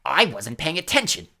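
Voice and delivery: dramatic. A narrator's reading. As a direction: make a grand show of it. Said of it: "said Myrtle dramatically".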